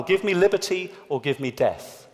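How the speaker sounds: confident original quote delivered without hedging; as a man might say it. Shown as a demonstration. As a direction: state it plainly and firmly like a man would. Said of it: "as a man might say it".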